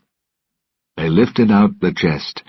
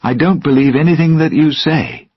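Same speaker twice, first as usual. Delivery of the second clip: higher, louder angry shout; 11 semitones higher, 6 dB louder than usual. Acted. Will shouting at Jack, higher and louder. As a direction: fling the words at him. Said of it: "he shouted".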